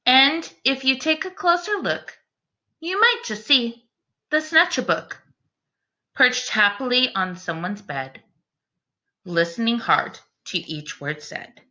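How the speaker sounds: put-on rhyming read-aloud for children; storybook reading. A narrator's reading. Teacher reading a picture book to her class, storytelling voice. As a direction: read the verse to the class with gentle rhythm.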